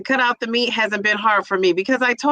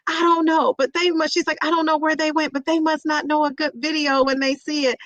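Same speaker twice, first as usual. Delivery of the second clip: indignant daughter; 6 semitones higher than usual. Retold or imitated. Daughter quoted in a story.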